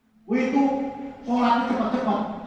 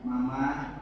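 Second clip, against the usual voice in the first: low and tender, lightly hammed-up romance; romantic sweet talk; 6 semitones lower, 9 dB quieter than usual. Shown as a demonstration. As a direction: demonstrate sweet-talking your wife, lingering on the compliment. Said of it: "istri harus romantis".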